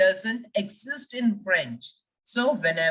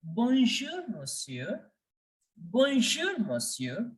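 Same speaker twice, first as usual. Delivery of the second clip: receptionist's greeting; 2 semitones higher, 3 dB quieter, slower than usual. Acted. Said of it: "the receptionist greets you by saying".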